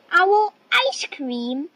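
taken aback, pitch jumping up; alarmed echo. Acted. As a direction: repeat it in startled disbelief. Owl's alarmed echo of the threat.

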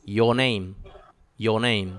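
"your name" as "yo name", no R before the n; silent R. Shown as a demonstration. Teacher demonstrating for students, R left silent. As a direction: run "your" into "name" with the R dropped. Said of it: "No la pronuncio".

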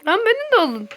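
high pleading yell; desperate shout. Real, not acted. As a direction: call out desperately to be taken. Left behind in game.

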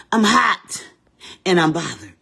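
exclaimed. Real, not acted. Playful outburst to auntie.

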